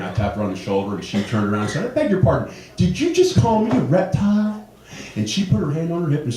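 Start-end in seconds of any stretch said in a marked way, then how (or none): 1.8-4.6 high-pitched, affronted challenge; indignant. Retold or imitated. Shopper following woman to the checkout, indignant. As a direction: confront her in acted outrage.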